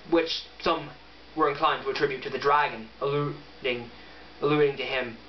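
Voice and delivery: steady, even book-reading voice; reading aloud. Acted. Vlogger reading The Hobbit aloud to viewers, calm narration. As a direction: read the passage plainly to the viewers.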